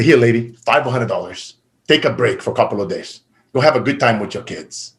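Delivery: gentle generosity. Retold or imitated. Giving money to street vendor.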